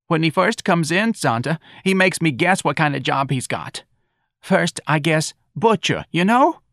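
high, plaintive storytelling voice; aggrieved mother. Acted. Mrs. Riley telling Santa of the guessing, aggrieved. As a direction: pour out the grievance to a friend. Mother tells her woeful tale.

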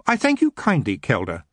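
lightly voiced young gentleman; a courteous refusal; polite Geoffrey. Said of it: "he said softly".

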